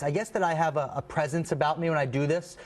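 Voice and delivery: ordinary talk, nothing marked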